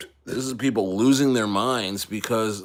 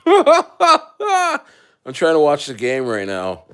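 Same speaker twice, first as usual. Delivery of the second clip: drawn out through laughter, slow and higher; laughing mock whine; 4 semitones higher, 6 dB louder, much slower than usual. Fan waving off the military during the game, slow laughing whine. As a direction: whine it slowly while laughing.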